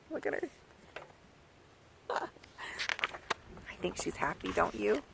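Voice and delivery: whispering. Real, not acted. Whispered aside about the picture.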